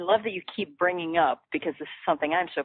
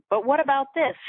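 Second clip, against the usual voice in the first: high, louder doubting objection; skeptic's voice; 8 semitones higher, 3 dB louder than usual. Pretend. Host voicing a listener's doubt, high and pushy. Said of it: "I always like to be the voice of".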